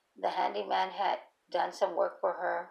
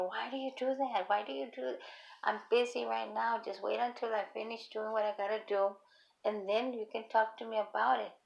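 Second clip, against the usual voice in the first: mild retold scolding; 3 semitones higher than usual. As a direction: imitate a busy mother putting off her daughter. Acted mother scolding daughter while busy.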